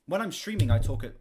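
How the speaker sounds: loud, projected, pitched well up; streaming voice. Shown as a demonstration. Streamer showing how loud they talk on stream, projected. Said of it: "I talk at this volume".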